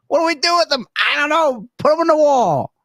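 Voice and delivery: mock flustered voice. Mock confused owners.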